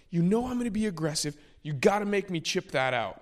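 hammed-up annoyed whine at the caddie; imitating pissed golfer. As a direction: rattle off his exasperated gripe. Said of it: "And he was pissed".

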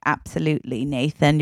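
low, soft British-butler assurance; loving butler. Acted. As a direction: reassure him softly and low. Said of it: "so loving with the way he says it".

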